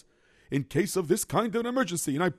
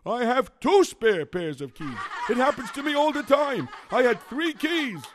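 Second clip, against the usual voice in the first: laughing through the words, higher; 7 semitones higher than usual. Acted. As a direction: giggle sheepishly while confessing. Admits losing all keys.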